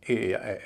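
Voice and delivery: "ए या ए" as full, drawn-out vowels; slow, full vowels on "ए या ए"; wrong vowels. Shown as a demonstration. Teacher showing sounds to avoid, wrong vowels. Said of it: "न कि".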